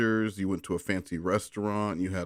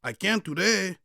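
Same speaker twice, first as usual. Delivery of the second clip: much higher put-on voice; vampire voice; 11 semitones higher than usual. The speaker refusing Derek in a vampire voice. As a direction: back to the vampire voice. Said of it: "that voice".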